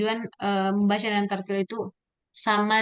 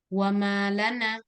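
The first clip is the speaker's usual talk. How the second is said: "wa malana" slowly, connected as one word; no word break inside "malana"; slow, evenly linked "wa malana"; read joined up; slower than usual. Shown as a demonstration. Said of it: "yaitu yang dibaca bersambung".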